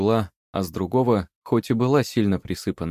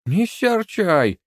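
high, very slow mocking echo; old witch parroting the wood spirit; mocking mimicry; 12 semitones higher, 5 dB louder, much slower than usual. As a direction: mimic him with a witch's scorn. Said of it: "Яга не унималась".

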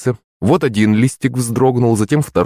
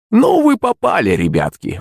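put-on high old hag exclaiming; gleeful warning from the hag; exclaiming crone; 11 semitones higher than usual. A narrator's reading. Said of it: "воскликнула старуха". (высокий возглас старухи)

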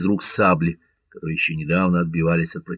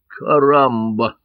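slow, louder drawn-out Caramba; the wounded Catalan sees the corsair, drawn out; wounded man's cry; 4 semitones higher, 4 dB louder, much slower than usual. A narrator's reading. Раненый протяжно вскрикивает. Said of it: "вскричал раненый".

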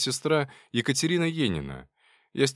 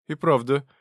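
louder, higher startled question; sudden realisation; 5 semitones higher, 4 dB louder than usual. Acted. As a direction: catch yourself mid-thought. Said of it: "спохватилась медсестра".

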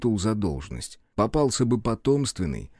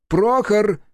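calling loudly and higher for the secretary; raised voice; 11 semitones higher, 7 dB louder than usual. A narrator's reading. Mayor calls his secretary through the door, loud. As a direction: shout the name toward the door. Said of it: "Авдеев повысил голос".

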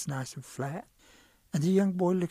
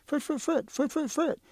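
calling out; 10 semitones higher than usual. Acted. Calling the medicine cousin.

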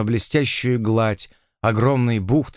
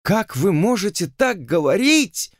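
higher, indignant exclamation; exclaiming; 7 semitones higher than usual. A narrator's reading. Heroine cries out at the lord in higher indignation. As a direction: cry out in disbelief. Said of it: "воскликнула она".

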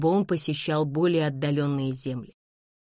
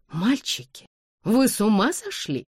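mildly scandalised, voice lifted; a mother's higher-pitched reproach; shocked exclamation; 6 semitones higher than usual. A narrator's reading. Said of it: "воскликнула миссис Лин". (потрясённый возглас матери)

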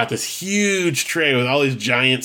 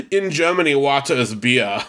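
German waiter voice; 2 semitones higher than usual. Retold or imitated. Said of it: "And he goes".

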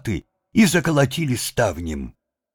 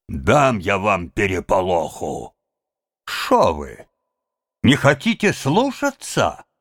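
enraged head; 4 semitones higher than usual. A narrator's reading. Head furious at his men.

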